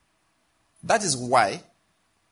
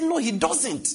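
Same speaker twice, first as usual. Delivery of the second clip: flat contradiction; 11 semitones higher, slower than usual. Retold or imitated. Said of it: "I said".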